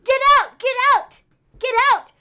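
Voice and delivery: Brody Lee losing it at the table over a sneeze; furious yell. Retold or imitated. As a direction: scream him out of the room.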